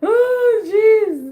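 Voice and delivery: high loud oh jeez; exasperated. Real, not acted. Recalling the mess, high loud exclaim. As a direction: cry out overwhelmed.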